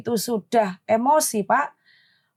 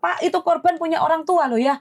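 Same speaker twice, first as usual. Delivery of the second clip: a raised, sharp retort to an officer; retold snapping; 4 semitones higher than usual. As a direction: snap back at him, mother defending her child. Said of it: "langsung saya nyolot". (menyolot dengan nada tinggi)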